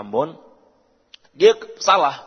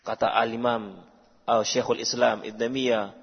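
ordinary delivery

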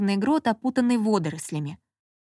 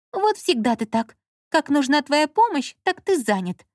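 offended; 6 semitones higher than usual. A narrator's reading. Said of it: "обиженно проговорила Лола".

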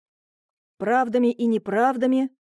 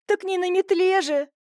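higher, groaning through pain; 7 semitones higher than usual. A narrator's reading. Wife in labour answering her friend, groaning. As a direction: moan the joke back. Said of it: "стонала Марийка".

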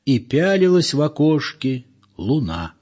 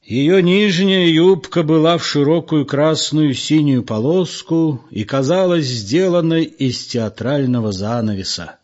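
louder, higher, spiteful quoting; loud fierce recital; 4 semitones higher than usual. Acted. Egor quotes loudly from behind the curtain, spiteful. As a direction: recite it loudly just to annoy. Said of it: "громко, отчётливо, остервенело процитировал".

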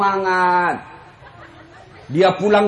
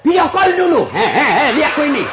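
hammed-up suspicious wife, higher and louder; mock demanding wife; 5 semitones higher, 4 dB louder than usual. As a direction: tease it out like a bossy wife checking up. Wife demands video call. (istri menuntut video call, dibuat-buat)

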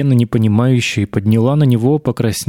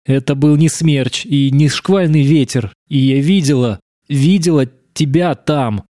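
higher, breaking voice on the edge of tears; 4 semitones higher than usual. A narrator's reading. Verena, near tears, confronts Alex, her voice breaking. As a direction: let the voice crack as she insists. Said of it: "Голос у неё срывался".

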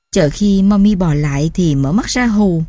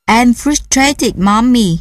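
put-on frustrated child; 3 semitones higher, much slower than usual. Child complaining.

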